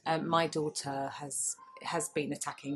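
hushed confession, half whispered; a guilty near-whisper about her own daughter. Real, not acted. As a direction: drop to a whisper as if owning up.

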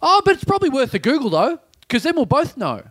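high, insistent questioner; crazy girl. Retold or imitated. Crazy girl pressing her theory on the woman, high insistent voice. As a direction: imitate a keen weirdo, pitched well up. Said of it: "the crazy girl goes".

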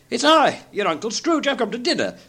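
high, eager greeting; joyful announcement. A narrator's reading. Scrooge surprising his nephew at dinner, high and eager. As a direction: announce yourself brightly, pitched well up.

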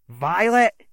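high, loud alarmed cry; fear turning to anger. Acted. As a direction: cry out her name in terror. Hero sees friend wounded.

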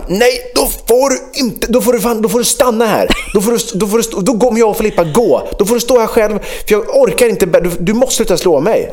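retelling how he lost it with his son, high and strained; angry father. Retold or imitated. Father snaps at hitting son. (arg pappa som skäller, högre röst)

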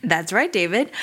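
a light touch of a polished anchor read; TV broadcaster voice. Pretend. Asked about voice training, answers David in a light TV anchor voice. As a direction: answer like a smooth on-air newsman, lightly. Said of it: "I, I hear it".

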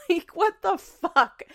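high, loud, drawn-out cry; exasperated outrage. Real, not acted. Venting at TikTok over its search feature, exasperated outrage. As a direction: stretch each word in loud disbelief.

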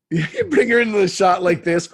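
laughing while talking. Real, not acted. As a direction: laugh through the line. Laughing at the joke.

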